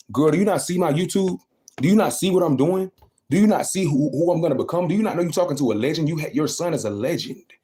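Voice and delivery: high, loud indignant questions; heated disbelief. Retold or imitated. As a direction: demand she see his success. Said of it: "in my head".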